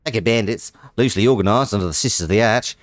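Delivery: hammed-up Australian read of "Pack of bandits"; mock Australian narrator, quick on the second phrase; Australian accent. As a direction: lay on a broad Aussie accent. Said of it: "He's an Australian now".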